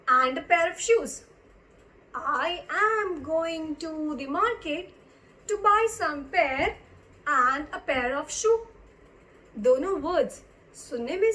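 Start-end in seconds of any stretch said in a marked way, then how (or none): 2.1-8.6 slow, drawn-out teacher's reading; word by word, with pauses between phrases; slow repeat. Shown as a demonstration. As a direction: stretch each word out for learners. Slow repeat of example sentence.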